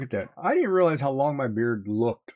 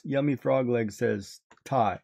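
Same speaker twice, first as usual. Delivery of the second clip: imitating text-to-speech; slower than usual. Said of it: "it reads".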